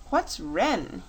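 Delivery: put-on repeating "What's Ren?" in the plain king voice, no childlike lift; king quoting the boy. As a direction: savour the boy's words back to the court. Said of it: "he asks".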